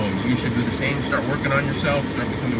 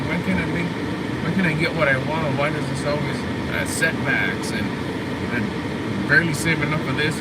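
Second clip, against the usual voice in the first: high, self-pitying whine near tears; high whimpering pity-party voice; whiny sad mode; 4 semitones higher than usual. Retold or imitated. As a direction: moan like the world's against you. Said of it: "almost like you wanna cry".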